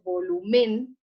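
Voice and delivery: "volumen" con fuerza en la última sílaba, vo-lu-MÉN; acento equivocado. Shown as a demonstration. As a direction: carga la voz en MEN al decir "volumen". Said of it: "si colocamos el acento en la E". ("volumen" dicho como aguda, vo-lu-MÉN)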